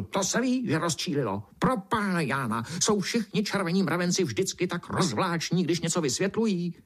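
put-on high, testy old-beetle voice; grumpy beetle spitting. A narrator's reading. Cranky black beetle scolding the red ant, high and testy. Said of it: "černý brouk prskl".

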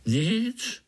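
high little wondering voice; amazed. A narrator's reading. Dusty little spider answering Pája after looking around, amazed. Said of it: "udíveně koukal kolem sebe".

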